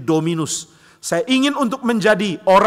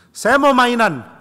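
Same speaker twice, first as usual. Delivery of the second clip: lightly voiced child, higher, louder and drawn out; a small child insisting, slowly; kid's slow, raised demand; 6 semitones higher, 5 dB louder, slower than usual.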